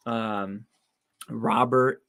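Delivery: hoarse, worn-out voice. Real, not acted. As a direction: voice going hoarse. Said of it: "I'm losing my voice".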